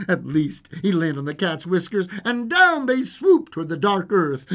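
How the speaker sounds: lively storyteller with swooping pitch; storybook reading, animated; fairy-tale narration. A narrator's reading. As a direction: tell a bedtime tale with suspense. Reads fairy tale aloud.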